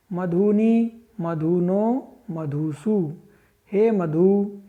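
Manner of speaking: rhythmic sing-song reading of the word forms; teacher reciting Sanskrit case forms aloud; paradigm recitation. Shown as a demonstration. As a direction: chant the declension table for the class. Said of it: "मधु का हम उच्चारण करते हैं".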